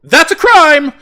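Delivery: high, loud mocking yell again; mocking noble cry. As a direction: jeer it like a snobby noble. Second of repeated line.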